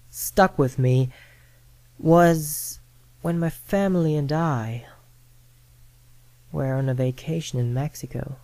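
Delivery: lightly hushed storytelling; story narration. Acted. Host retelling a ghost story from a Mexico vacation, calm narration. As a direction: ease into a creepy personal tale.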